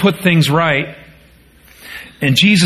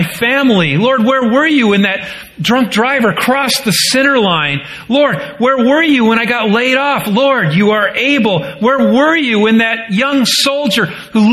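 anguished prayer; 4 semitones higher than usual. Retold or imitated. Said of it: "It's what we say too".

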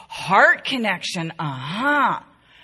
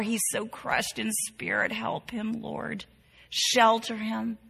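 prayer. Shown as a demonstration. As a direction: pray it gently, voice dropping away. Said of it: "You can pray something like this".

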